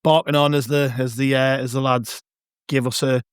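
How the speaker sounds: hoarse, croaky from shouting. Real, not acted. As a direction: voice rough after a match of yelling. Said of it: "my voice is still a little bit croaky from the game".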